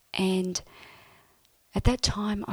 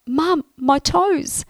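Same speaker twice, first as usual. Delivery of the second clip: higher, louder and slow, calling to Mum; 8 semitones higher, 6 dB louder, slower than usual. Retold or imitated. Calling to Mum about her toes, excited. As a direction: call out in amazement. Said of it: "I call out".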